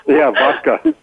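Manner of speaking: put-on jokey high Russian accent on vodka; playful fake Russian accent; mock Russian accent. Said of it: "You got a Russian accent?".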